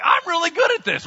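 high, loud, hammed-up insistence; mock-indignant boast; defensive protest. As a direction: insist on it, voice pitched right up. Acted David protesting, won't drop it.

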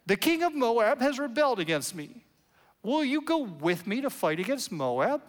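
whiny voice. Acted. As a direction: whine it like a needy king begging help. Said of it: "You ought to read this with a whiny voice".

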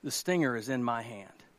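low, very soft fatherly voice; calm a frightened child softly; gentle reassurance. Acted. Dad shows daughter the stinger, gentle reassurance.

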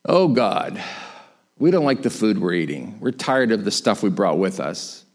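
low-pitched mock grumble; lightly acted weary grievance; complaining. Israelites complaining to God about food, grumbling. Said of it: "they start complaining".

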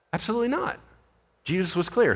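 ordinary delivery

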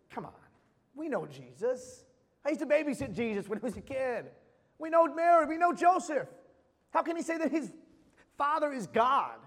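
a hint of an indignant neighbour; scoffing crowd. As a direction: scoff like a doubter who knew him as a kid. Voices doubting crowd, scoffing.

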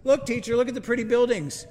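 high, dopey, wide-eyed voice; simpleton. Retold or imitated. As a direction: play it like a naive simpleton gawking. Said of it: "like, the most simpleton voice".

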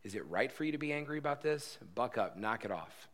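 harsh correcting tone, telling him to knock it off; stern scolding. Shown as a demonstration. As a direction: snap at Jonah like a stern parent. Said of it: "God just correcting and spanking".

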